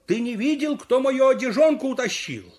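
high-pitched called question; calling out. Acted. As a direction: call it out to a runner, without full volume. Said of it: "Кричу ему".

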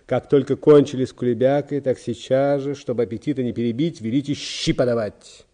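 loud, rousing enthusiasm; inspired. A narrator's reading. Secretary ordering the cabbage soup served, inspired. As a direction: declaim it eagerly, swept away. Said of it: "продолжал секретарь вдохновенно".

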